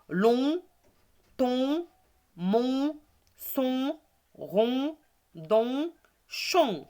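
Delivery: teacher's list drill, dropping on the last; reading syllables. Shown as a demonstration. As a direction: separate drawn-out syllables, each lifting upward. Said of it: "c'est la même chose ici".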